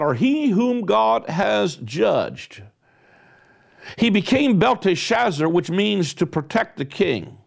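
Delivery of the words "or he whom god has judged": slow solemn definition. Real, not acted. Defining Daniel's name solemnly.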